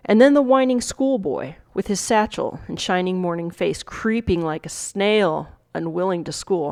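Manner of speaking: measured Shakespeare monologue reading; dramatic recitation. Acted. Teacher reading the monologue to students, dramatic recitation. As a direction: recite it with weight on each new figure.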